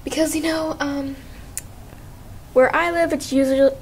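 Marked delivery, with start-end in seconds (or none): 2.5-3.7 teeth chattering from the cold; words shaking with cold; shivering. Real, not acted. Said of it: "I cannot talk".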